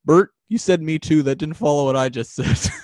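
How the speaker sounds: lightly voiced Ernie; playful Ernie impression. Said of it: "you do the voices very well".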